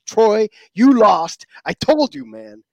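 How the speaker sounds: slow, loud gloat at Troy. Real, not acted. Taunting his buddy Troy about the lost bet, loud and drawn out. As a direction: rub the loss in, drawn out and loud.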